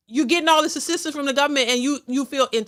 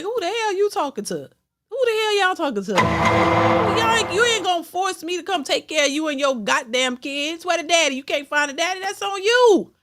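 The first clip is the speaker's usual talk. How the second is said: higher, indignant mock comeback; mocking men's reply; 4 semitones higher than usual. Vlogger voices men refusing the women, high and indignant. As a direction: play the annoyed man brushing her off.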